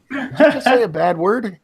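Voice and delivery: high-pitched mock shock; retold scandalised question. Grandpa catching granddaughter swearing, mock shock. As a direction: act out catching a child swearing. Grandpa retells scolding the child.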